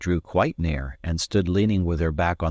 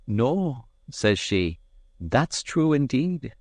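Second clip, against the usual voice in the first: wistful; 6 semitones higher, slower than usual. A narrator's reading. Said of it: "She sighed at this".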